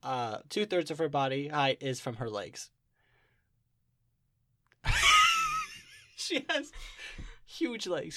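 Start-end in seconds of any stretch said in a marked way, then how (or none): 4.8-5.8 loud, very high laugh; high squealing laugh. Real, not acted. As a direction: shriek with laughter. Laughs at absurd leg description.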